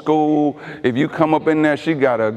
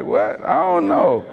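mock flustered spouse, pitch climbing on the names; fumbling for names, rising higher each try; a lightly voiced confused husband; 4 semitones higher than usual. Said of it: "They like".

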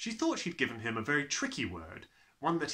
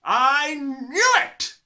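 very slow explosive roar, much higher and louder; bellowing; 15 dB louder, much slower than usual. A narrator's reading. Headmistress bellows at the grubby boy, slow explosive roar. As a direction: explode with the words. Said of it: "she bellowed".

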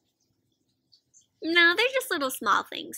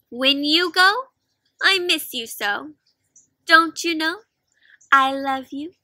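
tender letter reading; 5 dB louder, slower than usual. Acted.

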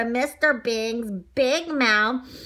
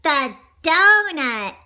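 higher, louder, drawn-out title announcement; announced title; 6 semitones higher, 6 dB louder, slower than usual. A narrator's reading. Reader announces the picture book's title, drawn-out. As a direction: read the title out big and slow.

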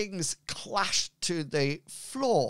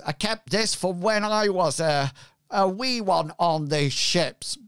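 pirate voice; 3 semitones higher, 4 dB louder than usual. Acted. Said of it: "my pirate voice".

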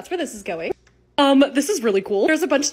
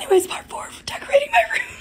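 voice cracking. Real, not acted. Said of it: "Coughing helps my voice a little bit".

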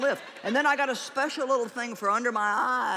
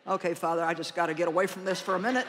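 low, quick tired aside; weary Jesus; 7 semitones lower, faster than usual. Retold or imitated. Jesus talking to the Father about the disciples, low tired aside. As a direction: mutter it like a worn-out man slipping away. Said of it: "maybe he's like".

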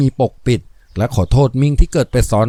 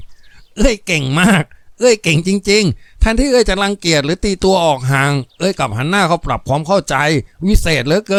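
Lop, moved and admiring; 5 semitones higher than usual. Acted. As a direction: praise her like a relieved brother. Voices Lop praising. (ชายหนุ่มชื่นชมอย่างซาบซึ้ง เสียงสูงขึ้น)

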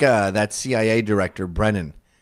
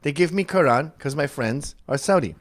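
higher, choppy mimicry in a mock Arab accent; 4 semitones higher than usual. Host mocking the actress in the clip, mock Arab accent. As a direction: parody her put-on Arab accent in broken phrases.

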